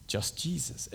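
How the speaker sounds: very soft and slow; hushed reveal. Real, not acted. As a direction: nearly whisper it, letting it sink in. Hushed key phrase.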